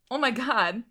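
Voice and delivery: high-pitched, astonished in-character greeting; surprised greeting. Acted. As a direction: act out a startled hello, pitch leaping up. GM voices surprised Liam at door.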